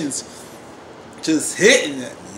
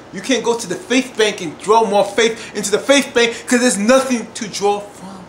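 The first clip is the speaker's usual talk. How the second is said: impassioned preaching; 3 semitones higher, 5 dB louder than usual. Real, not acted. Preaching about losing faith.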